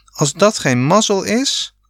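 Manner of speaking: high, thrilled outburst; a boy who can't believe his luck; excited cry. A narrator's reading. Rob to the family about the caravan, high excited cry. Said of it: "riep Rob".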